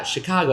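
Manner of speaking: Chicago with the stress on the ca start; emphasis on the C. Shown as a demonstration. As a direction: lean on the first syllable of Chicago. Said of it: "the emphasis is on the C".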